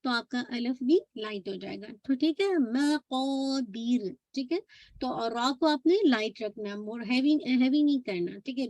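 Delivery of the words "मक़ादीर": मक़ादीर recited slowly with a light final र; light, drawn-out recitation. Shown as a demonstration. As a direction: draw out both long vowels of मक़ादीर, keep the final र light. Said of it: "light letter है". (मक़ादीर को खींचकर, र हल्की रखते हुए)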